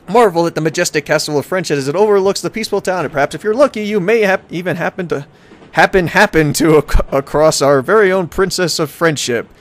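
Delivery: hammy travel-brochure announcer; tourism ad read. Acted. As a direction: sell the town like a promo. Reads travel brochure aloud.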